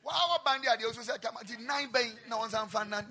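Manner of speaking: loud rebuke; shouted command. Retold or imitated. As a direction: order the spirit out. Retold deliverance command.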